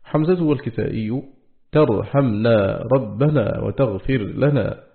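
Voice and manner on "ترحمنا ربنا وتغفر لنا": ترحمنا with ta and ربنا with fatha on the ba, said slowly; slow demo of ترحمنا ربنا with ta; slow recited demo. Shown as a demonstration. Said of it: "بالتاء فيهما ونصب الباء من ربنا".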